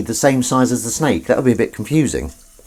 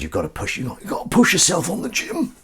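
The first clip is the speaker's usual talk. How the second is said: put-on high, strained stab at a friend's accent; a shaky attempt at Grez's accent; 10 semitones higher than usual. Quoting gym advice in a friend's accent, poorly. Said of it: "I can't do his accent".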